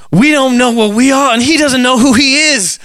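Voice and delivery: a light, admittedly bad Australian accent. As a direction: tourists in Australia asking directions, weak Australian accent. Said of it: "I don't have a good Australian accent".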